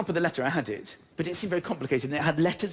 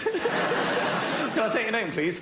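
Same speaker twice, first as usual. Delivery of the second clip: drawn-out repeat; 3 semitones higher, much slower than usual. Retold or imitated. Agent repeats the question.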